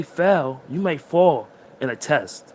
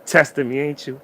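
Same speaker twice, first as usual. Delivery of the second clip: louder mock laugh at the driver who cut him off; 4 dB louder than usual. Shown as a demonstration. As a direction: laugh it off, teasing the test. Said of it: "Just laugh, you're like".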